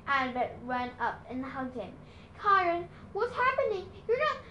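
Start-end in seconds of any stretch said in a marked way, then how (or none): 2.4-4.4 higher, pleading and shaky; a girl fearing her mentor leaves. A narrator's reading. Annabeth begging Chiron, voice shaky with worry. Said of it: "Her voice was shaky".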